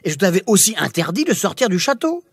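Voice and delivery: a hint of a cross king; furious scolding. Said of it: "Furieux, le roi la gronda".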